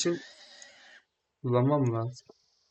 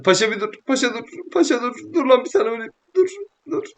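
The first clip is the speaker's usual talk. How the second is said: calling out; 9 semitones higher, faster than usual. Real, not acted. Player yelling at Paşa to stop so he can hit him. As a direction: yell after him to stop. Calling after running friend.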